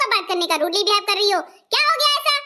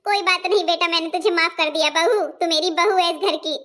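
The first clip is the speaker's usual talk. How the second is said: a hint of an older mother, a bit lower and gentle; mother-in-law forgiving the daughter-in-law, lightly lower voice; lightly voiced mother-in-law; 3 semitones lower than usual.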